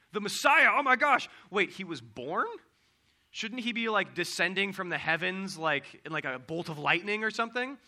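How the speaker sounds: thrilled fan who then gets confused; shepherd boys thrilled by the news, high and loud; excited shepherds. Retold or imitated.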